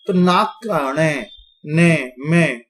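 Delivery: णे ने में said slowly through the nose; slow nasal syllables. Shown as a demonstration. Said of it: "जैसे नाक में कर बोल रहे हो आप".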